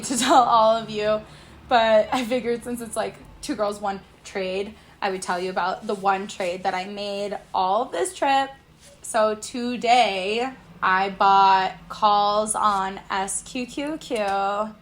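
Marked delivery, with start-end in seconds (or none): 5.0-14.7 tipsy talk, words drag and slip. Real, not acted. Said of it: "Sorry, I'm a little tipsy".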